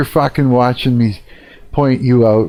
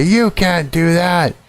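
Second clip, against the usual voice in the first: high, slow robotic refusal; lightly mock a prissy machine saying no; a prim, high computer voice, slowly; 6 semitones higher, slower than usual. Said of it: "it's gonna say".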